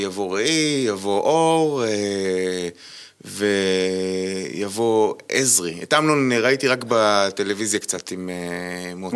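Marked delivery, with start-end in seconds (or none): 0.0-5.8 put-on French accent. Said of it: "הוא אמר לי".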